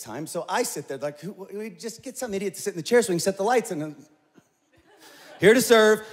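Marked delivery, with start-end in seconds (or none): 5.4-6.0 bright, eager "here to serve"; chirpy volunteer, proud to help; mock eager assistant.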